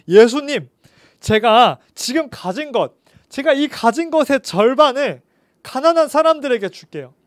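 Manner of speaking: promising with his whole heart; earnest vow. Acted.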